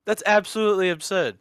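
put-on British accent, dismissive; mock British debater objecting. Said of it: "talk in a British accent".

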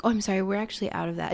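quick, soft, lightly tired apology; weary apology. Retold or imitated. Worker tells a customer it's out, softly weary. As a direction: imitate a worker tired of saying it. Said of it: "the worker is either exhausted".

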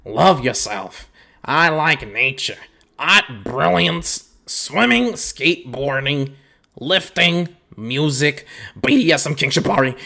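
a light, lightly voiced read in Cleveland's manner; barely changed impression of Cleveland; a touch of Cleveland. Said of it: "Let me read it in Cleveland's voice".

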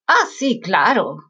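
brother's sarcastic "sure, of course". Retold or imitated. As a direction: say it like you don't believe her one bit. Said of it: "saying in a sarcastic way".

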